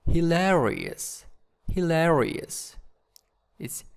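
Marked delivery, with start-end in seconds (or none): 0.0-2.8 "Hilarious" with the second syllable stressed. Shown as a demonstration. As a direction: lean on the LA in "Hilarious", falling after it. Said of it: "in the second syllable".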